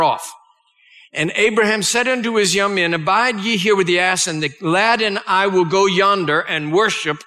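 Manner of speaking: measured, solemn Bible reading; solemn scripture reading to a congregation. Acted. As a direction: read the old King James words with weight. Reads Genesis passage aloud.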